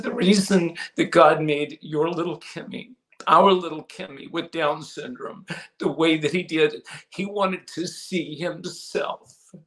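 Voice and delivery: patient, slowed restatement; slow, deliberate re-explanation. Retold or imitated. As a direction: spell it out slowly, word by word. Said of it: "she goes, "What?".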